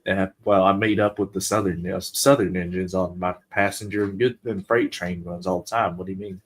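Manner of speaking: put-on offhand reply in a Southern accent. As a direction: explain yourself with a mild Southern accent. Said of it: "Why do you sound Southern?".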